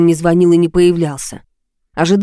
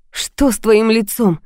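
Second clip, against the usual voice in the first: slow, higher, held back; frightened question; 4 semitones higher, slower than usual. Acted. Woman fearfully asks what is wrong with his face. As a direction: ask it, afraid of the answer. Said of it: "спросила я испуганно".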